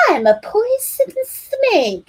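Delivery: slow, high hissing snake play; menacing snake boy. A narrator's reading. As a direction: slither the words like a snake. Child playing snake.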